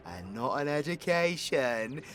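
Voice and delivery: scolding aside. Acted.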